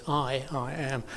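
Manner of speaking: drawn-out "I", then "I am"; emphasis on I. Retold or imitated. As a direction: lean heavily on "I" without raising the voice. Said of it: "putting very heavy emphasis on the word I".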